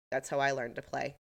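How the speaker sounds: mildly vacant imitation. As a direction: say it blankly, dropping pitch and volume. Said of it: "Evan kind of vacantly says".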